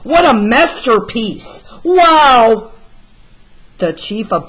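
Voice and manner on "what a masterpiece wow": amazed admiration. Acted. Admiring the painting.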